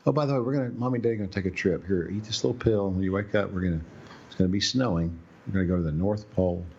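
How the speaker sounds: lightly voiced mock-cheery parents; sarcastic, sing-song parent promises. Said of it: "what they're doing to these kids".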